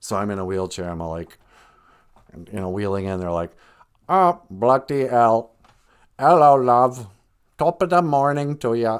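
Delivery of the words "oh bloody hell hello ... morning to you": put-on robot voice with laid-on thick English accent. Comic bit about being in a wheelchair, fake robot voice, thick English accent. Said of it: "fake robot voice, but we're gonna put it with a thick English accent".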